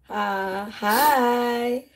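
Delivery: ordinary delivery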